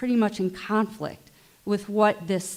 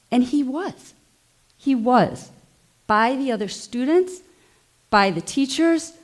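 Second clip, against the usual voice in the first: upset parent, halting phrases; real emotion; 2 semitones higher than usual. Real, not acted. Parent telling a school meeting about their trans kid, emotional. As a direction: speak with feeling, pausing between short phrases. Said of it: "I'm sorry I'm emotional".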